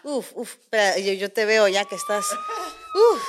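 gasping for air; breathless, puffing; out of breath. Real, not acted. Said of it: "Respira, respira".

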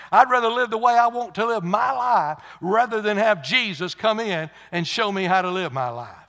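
preacher mimicking stubborn refusers, escalating to a shout; defiant refusal. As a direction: build into loud, high defiance. Voicing defiant folk who refuse Jesus.

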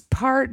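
"part" with the R dropped; Rhode Island pronunciation. Shown as a demonstration. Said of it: "no R".

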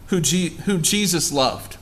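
ordinary talk

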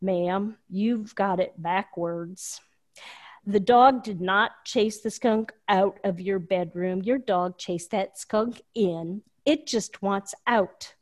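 lightly imitating a Southern drawl, slow and calm; mild Southern drawl. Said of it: "in his deep Southern drawl".

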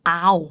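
"hour" said like "our", no H; silent H. Shown as a demonstration. Host compares another word for learners, "hour" with silent H. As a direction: begin "hour" straight on the vowel. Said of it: "จะไม่ออกเสียงตัว H เหมือนกั".

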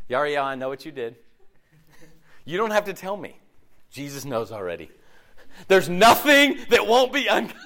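a hint of a fire-and-brimstone preacher, laughing at the end; lightly mock the scary preacher; mock scare preacher. Pastor mocking preachers who scare people, lightly hammed. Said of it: "we use that to scare people".

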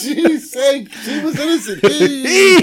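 tiny high-pitched battle cry; squeaky battle cry. Pretend. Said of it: "continuing squeaky joke voice".

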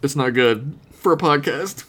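hiccuping while talking; with hiccups. Real, not acted. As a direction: speak through hiccups. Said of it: "I have hiccups".

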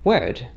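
"word" with the R dropped; "word" with no R sounded, as in a British accent; non-rhotic pronunciation. Shown as a demonstration. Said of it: "I pronounced it as".

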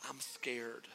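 a small scared voice, barely there; son's small admission. Retold or imitated. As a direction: confess it quietly like a scared boy. Son admits fear, voiced softly.

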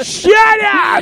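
swat away the teasing; laughing protest. Real, not acted. Husband laughing off his wife's teasing, yelp.

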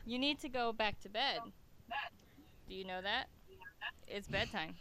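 hushed, gentle bedtime voice; soft voice. Real, not acted. Mother sending child to bed.

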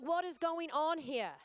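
slow, high, bewildered plea; overwhelmed. Retold or imitated. Mother overwhelmed in the laundry, high bewildered plea. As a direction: stretch it out, lost and overwhelmed. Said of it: "And I'm like".

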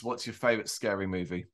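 low, hushed horror-caller voice; a hint of a creepy phone stalker; Ghostface voice. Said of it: "in my worst Ghostface voice".

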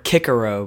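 CICERO with both C's as hard K; Latin pronunciation. Shown as a demonstration. Co-host adding another example, Latin pronunciation. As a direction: say CICERO as KICK-er-oh. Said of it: "which is the Latin pronunciation".

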